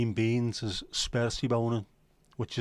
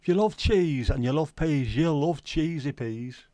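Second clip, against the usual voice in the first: mock advert; 3 semitones higher than usual. Quoting the cheesy peas advert in a hammed-up voice.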